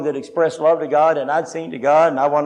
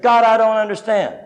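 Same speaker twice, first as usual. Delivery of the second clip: frustrated outcry; 5 semitones higher than usual. Retold or imitated. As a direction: cry out to God in frustration, slowing at the end. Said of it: "in frustration I cried out".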